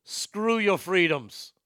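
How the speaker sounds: put-on slow, lightly done Austrian accent; a hint of a big Austrian strongman; slow Austrian accent, leaning on your. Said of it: "in a big Austrian accent".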